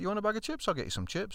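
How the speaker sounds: keen to please, bright offer; eager offer. Retold or imitated. Husband eager offer, voiced.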